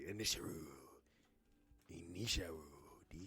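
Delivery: softly savoured mock Japanese accent. Co-host repeats it for fun, hushed Japanese accent. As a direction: quietly play with the title in a Japanese accent. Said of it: "That's fun to say".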